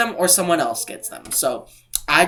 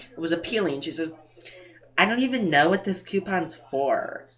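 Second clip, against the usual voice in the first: cashier voice; 3 dB quieter than usual. Retold or imitated. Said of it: "I shouldn't say it in, like, a voice like that".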